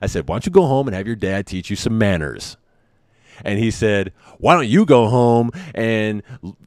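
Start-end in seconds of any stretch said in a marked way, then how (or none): 4.4-6.6 mock kid throwing it back, louder; retaliatory tone. Kid retorting to the dad with a retaliatory tone. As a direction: throw the line right back at him. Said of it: "he had that retaliatory tone".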